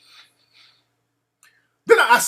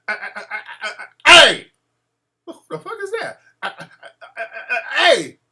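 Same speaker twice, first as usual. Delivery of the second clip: stuttering; 3 semitones higher, 3 dB louder, faster than usual. Retold or imitated. Rival stammering, then calling out.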